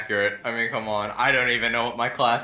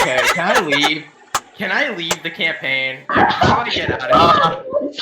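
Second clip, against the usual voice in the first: laughing, louder mock despair; laughing plea; 3 semitones higher, 7 dB louder than usual. Real, not acted. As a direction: laugh and beg to leave.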